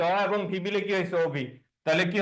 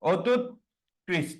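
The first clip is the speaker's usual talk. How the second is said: অত্যুৎকৃষ্ট stretched even slower into parts; even slower split; much slower than usual. Shown as a demonstration. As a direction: spell out অত্যুৎকৃষ্ট very slowly. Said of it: "যদি এরকম বলি". (আরও ধীরে টেনে বলা)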